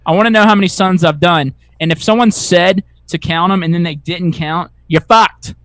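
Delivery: loud, tough Boston guy picking a fight; Boston accent. Retold or imitated. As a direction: bark it out in a thick Boston accent. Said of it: "That was a pretty good Boston accent".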